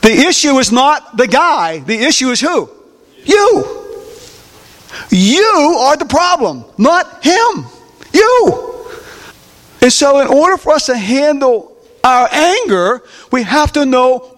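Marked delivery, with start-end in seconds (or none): 3.2-8.9 higher, stabbing "You."; pointed accusation. Acted. Preacher pointing at the listeners, high and accusing. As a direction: jab the word "You" straight at them.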